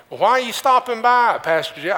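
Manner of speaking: high, loud mock-surprised question; acted surprised greeting. Neighbor greets the pastor at the door, acted surprise. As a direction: imitate a surprised host, pitched well up.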